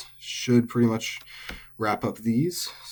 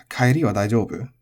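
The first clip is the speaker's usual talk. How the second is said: quoting club talk. Retold or imitated. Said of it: "said in club".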